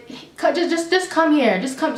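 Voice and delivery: mock irritated summons; irritated, imitated. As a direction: imitate a fed-up cashier, stumbling impatiently. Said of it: "She's all irritated with me".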